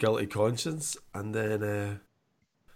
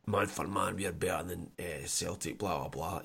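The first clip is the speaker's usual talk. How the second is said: mock pundit; 6 semitones lower, 8 dB quieter than usual. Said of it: "he gives it".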